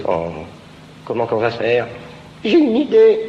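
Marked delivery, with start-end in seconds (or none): 2.4-3.3 eager idea. Acted. Character gets idea, high.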